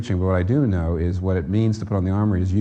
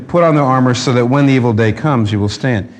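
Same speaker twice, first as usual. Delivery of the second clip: emphatic quote; 5 dB louder than usual. Real, not acted. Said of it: "it says".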